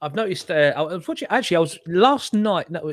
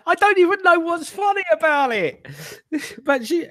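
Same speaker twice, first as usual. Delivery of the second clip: laughing through words; 13 semitones higher than usual. Real, not acted. Still laughing after the fit.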